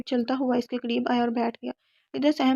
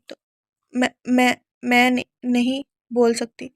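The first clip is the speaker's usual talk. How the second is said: broken voice; 4 dB louder than usual. A narrator's reading. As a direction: falter through each word in fear. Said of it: "रिदा टूटी हुई आवाज़ में बोली". (डर से टूटी, हकलाती आवाज़)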